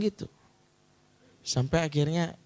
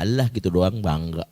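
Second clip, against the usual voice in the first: dismissive, belittling put-down; mocking father; 4 semitones lower, 4 dB louder than usual. Father belittling his child's first rank, mocking. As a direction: scoff at the child's pride. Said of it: "caranya itu cara ngenyek gitu".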